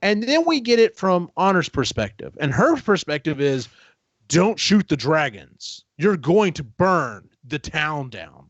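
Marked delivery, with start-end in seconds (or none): 4.3-8.5 slow, ominous warning. Retold or imitated. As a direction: make the same words sound like a threat, slowly. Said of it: "it's very ominous".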